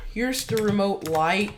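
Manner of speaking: hiccuping between words; talking through the hiccups. Real, not acted. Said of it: "Sorry for the hiccups".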